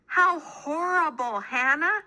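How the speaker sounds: sympathetic baker. A narrator's reading. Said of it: "said Homer".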